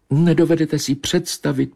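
dreamy she-cat remembering; high she-cat. Acted. She-cat to Bobeš, wistful and high.

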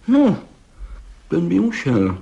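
high, drawn-out knowing "No" of a connoisseur; expert appraisal. Acted. Gendarme judging the bricklayer's muscles, knowingly. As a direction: weigh it up like an expert. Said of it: "mínil pan Hejda znalecky".

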